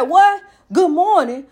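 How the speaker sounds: a loud, snappy What then a grudging good morning; grumpy greeting. Retold or imitated. Drinker snapping back at a friendly hello, irritable. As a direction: bark the greeting back like you're hungover and annoyed. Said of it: "you didn't say it right".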